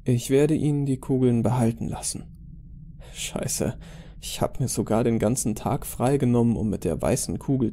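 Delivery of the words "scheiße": ordinary delivery, nothing marked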